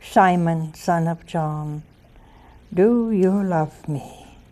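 the Lord asking Peter a third time, softly; tender third asking. Acted. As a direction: ask it gently, almost pleading. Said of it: "And then he said the third time".

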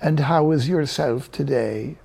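slow, lilting Irish greeting; Irish accent. Acted. Old lady greeting another on the street, Irish accent. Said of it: "with a fine Irish accent".

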